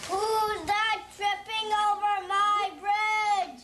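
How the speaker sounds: a slowish, lightly voiced troll challenge; a kid's mild mock troll roar; child playing troll. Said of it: "Roared the troll".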